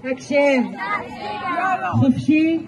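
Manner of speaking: sharp, loud drill command; barked army orders. Real, not acted. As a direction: bark the command at the troops. Counselor drilling campers at roll call. (פקודה צבאית נבחת)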